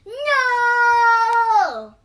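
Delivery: put-on piercing high scream of a furious toddler. A narrator's reading. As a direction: scream it like a tantrum. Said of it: "shrieked Jace".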